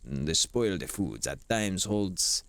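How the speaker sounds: hammed-up grand recital; dramatic game text reading. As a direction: declaim it like a stage monologue. Reads game text theatrically.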